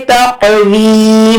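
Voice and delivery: तक़वी with a bouncing jolt on the क़, then a long ee; qalqalah jolt. Shown as a demonstration. Teacher showing a qalqalah letter, तक़वी with a jolt on क़. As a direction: bounce the क़ in तक़वी, stretch the ending. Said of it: "यहाँ पर झटका देंगे".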